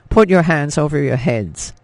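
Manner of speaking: loud, barked order from a soldier; commanding shout. Acted. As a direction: yell the order at the room. SS agents storm the cottage.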